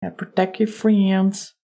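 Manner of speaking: put-on light amateur Texas accent. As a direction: try a mild mock Texan. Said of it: "That's my Texas accent".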